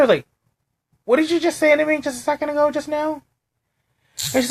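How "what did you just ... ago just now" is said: retold pointed question. Retold confronting coworker.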